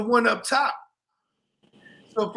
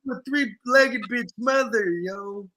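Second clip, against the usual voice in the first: put-on Jamaican accent; 4 semitones higher than usual. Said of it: "He just sounded Jamaican in my head".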